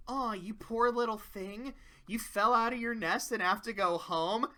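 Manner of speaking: mock sympathy for a little bird; lightly voiced fake pity, building to a laugh; mean Fluttershy. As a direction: coo with a hint of cruelty. Mean twin's mock sympathy, then cackle.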